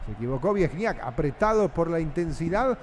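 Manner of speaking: radio football narrator; live football play-by-play. Acted. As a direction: follow the ball pass by pass.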